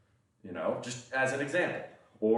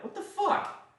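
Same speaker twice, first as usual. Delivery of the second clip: mock outraged fans; slower than usual. Indian fans reacting to Apu's cancellation.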